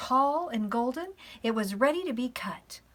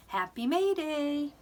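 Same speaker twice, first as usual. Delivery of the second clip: sing-song greeting, higher and drawn out; cheerful May Day greeting; 6 semitones higher, slower than usual. Pretend. Preschool teacher acting out a May Day surprise, cheerful. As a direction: greet someone slowly with a lilt. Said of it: "for someone to say".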